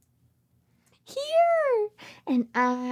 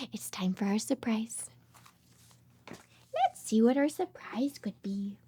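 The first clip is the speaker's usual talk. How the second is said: soft, hushed and secretive; hushed, teasing buildup to a surprise; suspense whisper; 5 semitones lower, 6 dB quieter than usual. Acted.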